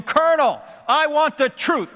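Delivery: quoting Tom Cruise. Retold or imitated. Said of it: "Tom Cruise had him on the witness stand".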